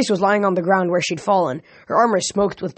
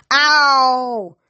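monster yelp; 5 semitones higher, 4 dB louder than usual. A narrator's reading. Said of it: "probably Drakon for".

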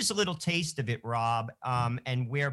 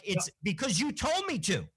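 Forrest Gump echo; 5 semitones higher than usual. Retold or imitated. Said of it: "like our friend Forrest Gump".

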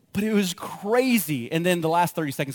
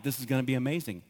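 lower, softer, quietly assured; retold calm; 4 semitones lower, 5 dB quieter, faster than usual. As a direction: say it unworried, knowing the outcome. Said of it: "why am I calm in that moment?".

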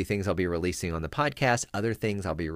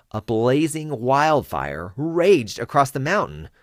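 slow, higher, much louder; blazing fire drama; 7 semitones higher, 8 dB louder, slower than usual. Shown as a demonstration. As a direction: let the fire rage in your voice. Wildfire narration.

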